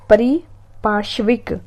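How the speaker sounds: परिपार्श्विक said slowly with a rising close; slow careful word. Shown as a demonstration. Teacher repeats परिपार्श्विक slowly for exam students.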